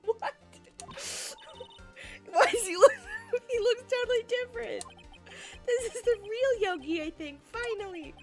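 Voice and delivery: high excited reaction; amazed, voice jumping up. Real, not acted. Laughing reaction.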